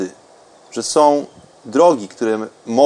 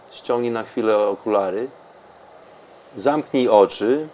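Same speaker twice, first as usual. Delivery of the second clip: calm, soft meditation guide; guided meditation; 2 semitones lower, 3 dB quieter than usual. Acted. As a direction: ease the listener into stillness.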